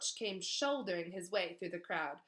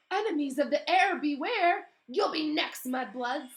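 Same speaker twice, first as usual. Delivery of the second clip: high, loud taunting yell; gloating shout; 7 semitones higher, 10 dB louder than usual. Acted. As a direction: taunt the crowd with glee. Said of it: "someone shouted through the quiet".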